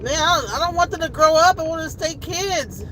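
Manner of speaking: real, mildly tearful lament. Real, not acted. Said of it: "little tears are coming out".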